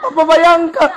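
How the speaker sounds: a mild start of pleading; the old woman begins her plea. Retold or imitated. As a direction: ask him to imagine, still held back. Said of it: "Mama tuh tambah gas".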